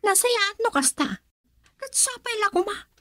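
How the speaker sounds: high, soft voice breaking into a crying laugh; choked crying laugh; tearful. Acted. Daughter weeps over lost love.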